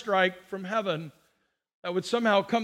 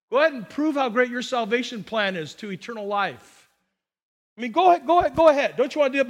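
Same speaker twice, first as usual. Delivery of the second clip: challenging dare; faster than usual. Pretend. Preacher daring believers to prove their God, goading. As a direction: goad them to prove it. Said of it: "I just want to say to them".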